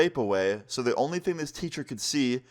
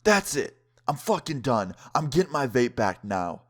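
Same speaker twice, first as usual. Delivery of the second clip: imitating fed-up outburst; 3 semitones higher than usual. Friend at lunch wanting his vape back, fed up. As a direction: act out a friend who has had enough.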